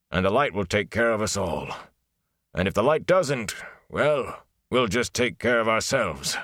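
lightly voiced smith, gruff reassurance; steady blacksmith. Blacksmith reassuring Rand before going to work, lightly voiced and steady. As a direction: buck the lad up, lightly voiced.

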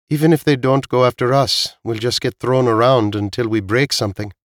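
a hint of a character worried aloud; lightly voiced Veek.

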